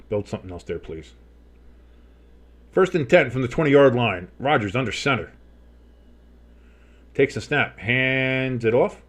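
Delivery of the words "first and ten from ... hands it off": crisp call, then a stretched-out handoff; play-by-play announcer. Pretend. Streamer calling first and ten for viewers, play-by-play. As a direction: set the down, then draw out the play.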